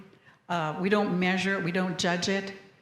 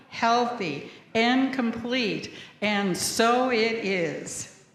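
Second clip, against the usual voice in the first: slow, measured recitation of an affirmation; slowing to a firm close; unison creed reading; slower than usual. Acted. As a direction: read it together like a solemn pledge. Congregation reads the creed aloud.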